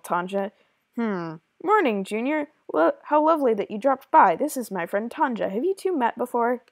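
lively, lightly acted game dialogue; character dialogue read-aloud. Pamela confides in Tanja about Missus X, lightly acted dialogue. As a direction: read it as a chatty, secretive helper.

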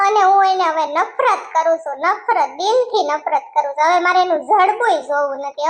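acted weeping with small sobs; tearful regret. Wronged wife vowing to live here with her baby, tearfully. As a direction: lament bitterly, lightly sobbing. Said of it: "હવે તમે રોવો માં".

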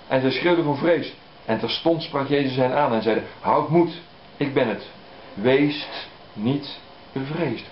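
unhurried reading from the pulpit; scripture reading. Acted. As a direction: read it out with solemn weight. Reads gospel passage aloud.

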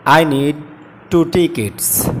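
tickets said as tikits, slow and soft; drawn-out teaching read of tickets; correct ticket. Shown as a demonstration. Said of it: "সঠিক উচ্চারণ হবে টিকিট". (tickets শব্দটি টিকিট উচ্চারণে, ধীরে)

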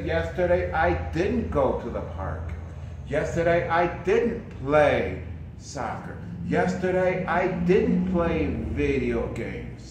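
"didn't" hit firmly each time; stress on didn't. Shown as a demonstration. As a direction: lean on "didn't" in every sentence. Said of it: "you can say".

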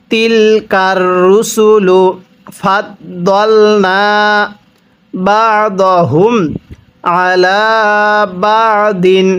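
very slow, word-by-word recitation; recite along with me. Shown as a demonstration. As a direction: read it slowly so they can follow. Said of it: "আমার সাথে পড়ুন". (ধীরে ধীরে সাথে পড়ানো)

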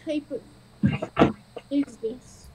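slow, hushed whisper. Acted. Kobold whispers to the strange dragon. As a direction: breathe the question out slowly. Yukiha asks the dragon cautiously.

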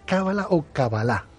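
"cábala" stressed on the first syllable, then "cabalá" stressed on the last; two stresses contrasted. Shown as a demonstration. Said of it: "con el acento en la primera, eh, vocal". ("cábala" con acento en la primera, "cabalá" con acento final)

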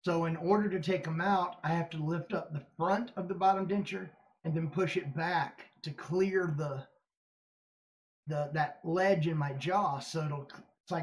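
lips pulled by fingers; talking while touching teeth; fingers in mouth. Real, not acted. Seen 0: Fingers repeatedly at or inside lips demonstrating denture, gaps between.

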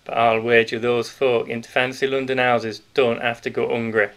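put-on a big grocer letting the children in on a secret; hearty Yorkshire grocer. Grocer voiced through the scene.

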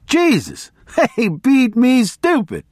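high-pitched, worked-up barroom storyteller; boisterous guy telling his wild tale; rambling race fan. Acted. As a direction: hold forth to a crowd in a high voice. Voices rambling biker to crowd.

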